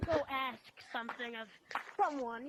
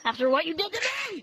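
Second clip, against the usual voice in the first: fast vengeful outburst; 5 dB louder, faster than usual. Acted. Wrecked animatronic blaming the guard.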